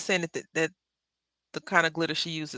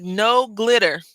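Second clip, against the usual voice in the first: high, loud teacher's warning; cartoon teacher; 4 semitones higher, 7 dB louder, slower than usual. Peppa Pig teacher warning the class, firm teacher voice. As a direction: lay down the rule like a schoolteacher. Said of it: "And she was like".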